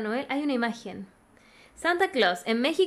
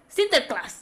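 Sinterklaas said with a light Dutch accent; 3 semitones higher, slower than usual. Shown as a demonstration. Reading Holland's name for Santa, light Dutch accent. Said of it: "Me encanta con el acento".

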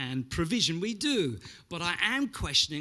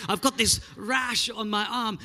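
put-on Greek accent; 5 semitones higher, 4 dB louder than usual. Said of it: "That was more Russian than Greek".

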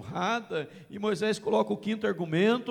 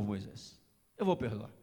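much lower and softer, a calm promise; gentle God; 12 semitones lower, 6 dB quieter than usual. Acted. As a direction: drop low and soft as God reassuring Moses. God's gentle reply to Moses. (voz baixa e serena de Deus)

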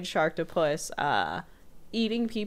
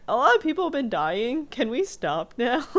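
whiny cameraman; 6 semitones higher than usual. Retold or imitated. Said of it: "He's like".

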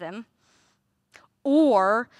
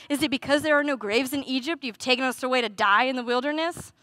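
sarcastic; faster than usual. Shown as a demonstration. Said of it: "so much sarcasm there at the beginning".

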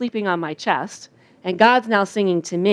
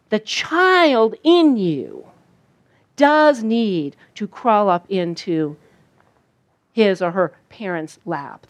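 slow tender; slower than usual. Acted. Slowed, soft preaching.

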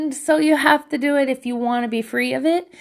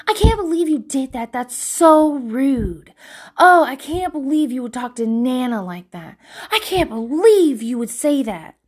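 mock outrage; 2 semitones higher than usual. Relatives scolding her for being rude, mock outrage. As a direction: imitate an offended relative. Mimicking everybody's scandalized reactions.

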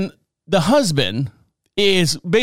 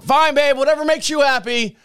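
high singsong brush-off; pitched-up mock-agreeable husband; dismissive husband; 10 semitones higher than usual. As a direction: imitate a husband airily waving his wife away. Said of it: "You know, he said".

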